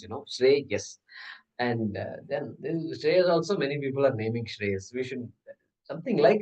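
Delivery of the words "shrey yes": "Shrey, yes" split into two syllables; two separate syllables. Shown as a demonstration. Teacher counting out a name, "Shrey, yes" in two beats. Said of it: "It's only two syllables".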